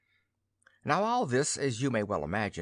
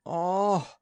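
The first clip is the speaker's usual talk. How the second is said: high, loud groan of regret; remorseful groan; 9 semitones higher, 5 dB louder than usual. A narrator's reading. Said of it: "groaned the goose remorsefully".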